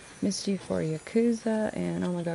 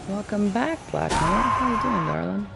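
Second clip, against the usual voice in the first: louder, higher welcome; bright greeting; 5 semitones higher, 7 dB louder than usual. Real, not acted. Streamer greeting Black Knight back, loud and high. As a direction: greet him warmly, lifting up.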